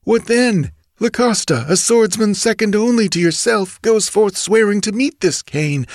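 worried bandit reporting a killing; bandit's voice. Acted.

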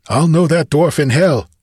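high, breathless exclamation; breathless gasp. A narrator's reading. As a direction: gasp it out as a battle-worn fighter. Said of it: "gasped Conan breathlessly".

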